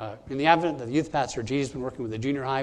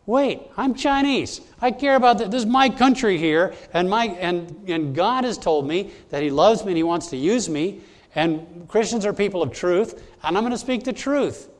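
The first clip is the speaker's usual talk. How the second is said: higher and louder, fired-up pleading; passionate retold quote; 5 semitones higher, 4 dB louder than usual. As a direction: voice Bob Fu's defiant cry, higher and louder. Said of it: "But he said".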